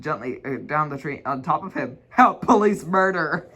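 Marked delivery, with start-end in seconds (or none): 2.1-3.5 hammed-up cry for help; mock scream. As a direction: yell for help in hammed-up terror. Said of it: "he screamed".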